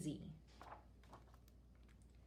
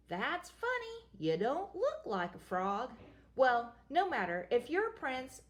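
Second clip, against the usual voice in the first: witch voice. Acted. First witch continues.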